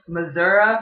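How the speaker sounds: "Missouri" as "mizz-UR-uh"; local Missouri pronunciation. Shown as a demonstration. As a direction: finish "Missouri" with "uh" instead of "ee". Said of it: "they're definitely from there".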